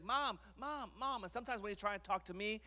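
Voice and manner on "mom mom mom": imitating toddler. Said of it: "he's like".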